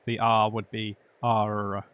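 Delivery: "R" said with a rolled Eastern European R. Shown as a demonstration. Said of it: "Eastern European accent".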